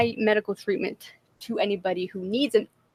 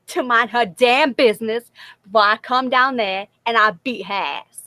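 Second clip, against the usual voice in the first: loud threat broken up by laughter; laughing; 3 semitones higher, 7 dB louder than usual. Acted. Repeating the friend's threat back, loud and laughing. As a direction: try the threat but crack up. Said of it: "if you want me to say it like you said it".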